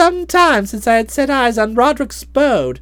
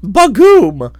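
low Yorkshire exclamation; 6 semitones lower, 5 dB louder than usual. Acted. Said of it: "He now said".

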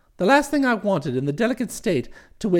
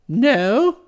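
quavering; 3 semitones higher, 5 dB louder than usual. Acted. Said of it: "I quavered".

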